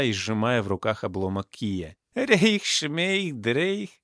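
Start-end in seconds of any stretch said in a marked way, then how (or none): 2.1-3.9 high, singsong doped babble; dazed muttering. A narrator's reading. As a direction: babble nonsense rhymes as if drugged. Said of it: "бормотал он, прикрыв глаза". (бредовое бормотание высоким голосом)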